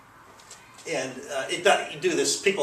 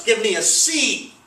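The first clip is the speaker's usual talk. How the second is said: much higher and louder cheer; a bright chant of "Give me a C"; cheerleader shout; 9 semitones higher, 7 dB louder than usual. Acted. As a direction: yell it out like a cheerleader at a game. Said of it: "the cheerleader shouts".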